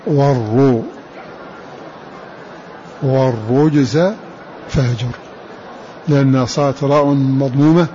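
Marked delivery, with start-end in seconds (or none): 3.0-5.2 والرجز with a full, dark rounded ra; heavy ra. Shown as a demonstration. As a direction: stretch والرجز slowly, heavy ru. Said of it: "فخم الراء". (والرجز بتفخيم الراء)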